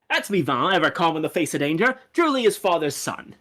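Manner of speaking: lightly voiced proud father figure; proud game character. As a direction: speak fondly of a son, lightly in character. Voicing a game character's dialogue.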